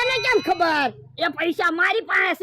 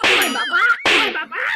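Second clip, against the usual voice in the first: alarmed cry of oh father; wailing in shock at the loss; panicked wail; 4 dB louder, slower than usual. Acted. Man panics over burnt money.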